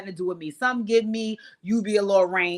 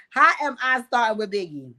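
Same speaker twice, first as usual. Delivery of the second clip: louder, indignant question; incredulous comeback; 4 dB louder than usual. Real, not acted. Host answering her brother's chat accusation, incredulous. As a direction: throw the accusation back in disbelief.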